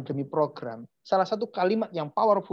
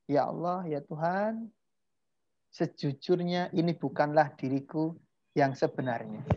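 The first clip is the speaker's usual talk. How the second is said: softer, measured plea to God; demonstrated prayer statement; 3 semitones lower, 5 dB quieter than usual. Shown as a demonstration. Teacher modelling the closing statement to God, softly sincere. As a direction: offer it as a quiet, sincere confession. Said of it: "di ujungnya sampaikan statement bahwa".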